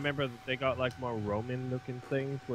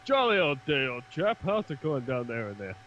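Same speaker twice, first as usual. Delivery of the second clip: posh British. Retold or imitated. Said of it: "a Space Marine just came up to you and went".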